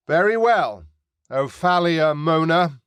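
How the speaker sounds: Mary answers the pirate firmly; young woman calling out. Acted. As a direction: answer crisply across the water.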